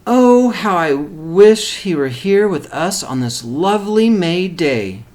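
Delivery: lightly voiced wistful mother; mother missing her son on a picnic; mild longing. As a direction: sigh out a wish for her son. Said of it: "said Missus Duncan".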